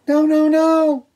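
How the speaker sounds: high, shouted no no no; loud squeaky refusal. Acted. Wolves refuse the pig.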